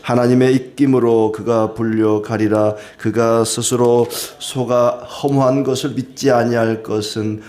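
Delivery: measured, solemn Bible reading; scripture reading. Acted. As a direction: read the verses like a pulpit reading. Reads scripture aloud. (성경 봉독하듯 엄숙하게)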